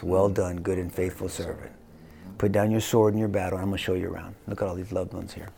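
low, softening words of welcome; tender welcome. Acted. His King greeting him in heaven, tender welcome.

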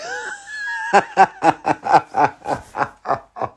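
high shrieking laugh. Real, not acted. Laughs at own punchline.

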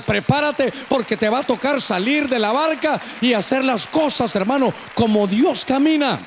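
insistent, driving sermon delivery; preaching. Real, not acted. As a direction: build urgency phrase by phrase for the congregation.

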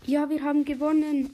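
shrieking jackpot winner. Real, not acted. Win in the showdown.

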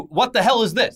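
3:imitate a viewer recoiling at the trailer; 1:shocked viewer. 4:host imitating viewers reacting to the first trailer, mock shocked. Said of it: "for their reactions to".

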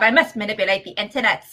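lightly put-on Chicago accent; Frankie Numbers. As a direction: do a playful mock Chicago character. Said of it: "That's my impression".

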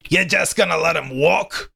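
can't believe he's letting him go; incredulous pack member. Acted. Pack member questions narrator.

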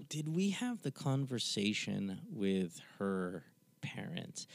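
slow hushed whisper to the side; quick check whispered off-mic; whispered aside. Real, not acted. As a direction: lean in and whisper the question slowly. Aside to co-host, unvoiced.

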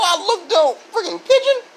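high pitched laughing retell. Real, not acted. Retelling the pigeon, breaking into laughter. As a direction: laugh through the words.

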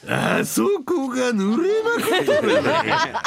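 very slow, high leering mock; Takanori impression. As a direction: drawl it out laughing, hammy. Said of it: "高典やったら".

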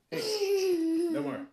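high squealing laugh; laughing protest. Real, not acted. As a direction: yelp through laughter. Kid attacks dad again.

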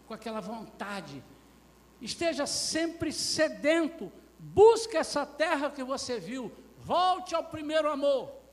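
loud, high exhortation; slow, stretched, shouted pulpit commands; full-force preaching. Real, not acted. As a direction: urge them on at the top of your voice.

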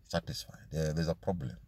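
drops to a breath on satisfied; whispered. Real, not acted. Preacher hushing the word for the congregation. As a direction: let it fall to a whisper.

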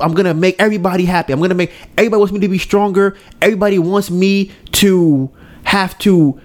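put-on eager boy's promise. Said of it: "So now he's like".

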